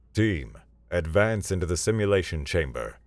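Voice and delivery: announcing to the team over a loudspeaker; measured order from a chamber speaker. Acted. Valerius orders the team into the chamber, echoing speaker voice. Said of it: "Valerius's voice echoed from a speaker".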